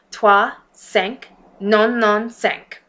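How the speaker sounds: "Trois, cinq" in halting French; French numbers. Acted. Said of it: "I'm not really good with French".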